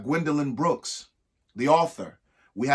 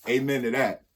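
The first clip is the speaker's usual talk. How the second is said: laughing. Real, not acted. Laughing aside during the reading.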